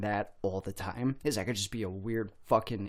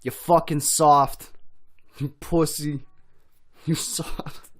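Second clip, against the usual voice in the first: quoting a line; 6 semitones higher, 8 dB louder, slower than usual. Retold or imitated. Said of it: "I fucking love that line".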